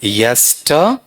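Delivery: "यस्टर" alone as YES-tuh, broken off; syllable-by-syllable demo. Shown as a demonstration. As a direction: say "यस्टर" carefully as a word part. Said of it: "इसका उच्चारण लिखवा दूं".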